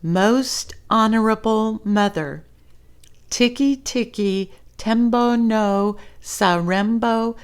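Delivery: each syllable of the long name laid out with care; slow and careful, one word at a time; very slowly. Acted. Chang saying the whole name carefully to his mother, slowly. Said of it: "very slowly, said".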